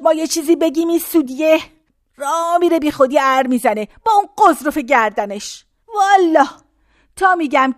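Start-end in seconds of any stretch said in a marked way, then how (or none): none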